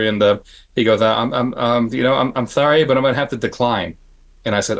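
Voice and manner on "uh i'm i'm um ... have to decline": imitated hesitant, lisped refusal; lightly lisped apologetic impression; Dick Smith lisp. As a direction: stumble into it with a slight lisp. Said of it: "He had a little bit of a lisp".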